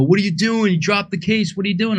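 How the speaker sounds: mock badgering. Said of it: "someone will go".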